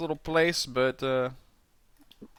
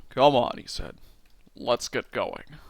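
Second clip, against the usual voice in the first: Jimmy Stewart voice; 2 semitones lower than usual. Acted. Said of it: "a Jimmy Stewart impression for Jimmy here".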